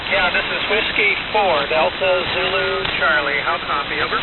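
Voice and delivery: thin crackly transmission; crackly military radio. Real, not acted. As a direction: voice through a shortwave radio. Ham station calling over radio.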